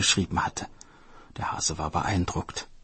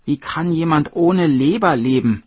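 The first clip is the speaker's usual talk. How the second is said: taunting, louder and fast; mocking hare; 8 semitones higher, 7 dB louder than usual. Hare mocking the turtle for being fooled, gleeful. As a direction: laugh at the fool who believed it.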